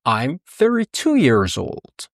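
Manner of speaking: slow careful English sentence; teacher modelling slowly; slow full answer. Shown as a demonstration. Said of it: "پس".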